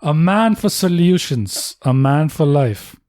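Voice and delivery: slow, grand mock-announcer tribute; solemn announcer. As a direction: intone it like a legend's introduction.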